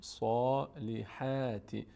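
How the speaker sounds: full rounded صا then front æ in حا of صالحاتی; heavy sad, light ha. Shown as a demonstration. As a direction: stretch صالحاتی, mouth wide only on حا. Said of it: "برای ها دهان به سمت بالا باز نمیشه".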